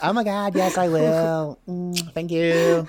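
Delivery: slow yeti creature voice; slow, drawn-out yeti. Acted. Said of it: "that was spot on".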